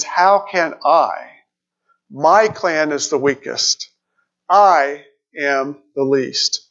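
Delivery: slow, heavy, defeated; worthless despair. Acted. Preacher voicing Gideon's hopelessness slowly, despairing. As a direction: drag each word out like a man who has given up. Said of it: "You hear it in his voice".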